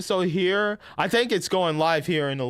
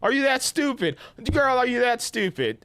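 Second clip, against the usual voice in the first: exasperated disbelief; 6 semitones higher than usual. Retold or imitated. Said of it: "I was like".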